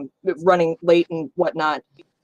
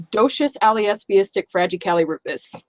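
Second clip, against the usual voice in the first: supercalifragilisticexpialidocious said backwards; backwards speech; 2 semitones higher than usual. Shown as a demonstration. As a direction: rattle the word off in reverse. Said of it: "can say supercalifragilisticexpialidocious backwards".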